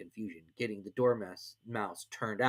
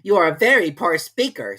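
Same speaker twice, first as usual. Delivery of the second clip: dry king; 7 semitones higher, 10 dB louder than usual. A narrator's reading. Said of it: "said the king".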